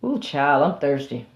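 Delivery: a hint of a defeated animal; lightly voiced weary elephant. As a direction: sound worn down and beaten.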